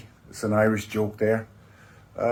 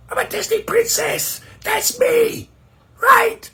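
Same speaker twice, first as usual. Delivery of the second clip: much higher and louder, a brash princess claim; shouted princess; 3 dB louder, slower than usual. Acted. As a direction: bellow it like a diva. Princess voice after threat.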